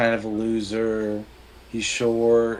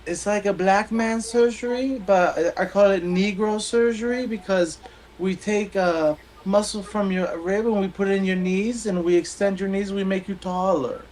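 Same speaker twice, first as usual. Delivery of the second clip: doctor voice; 10 semitones higher than usual. Acted. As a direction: play the joke's doctor up high and eager. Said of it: "He goes".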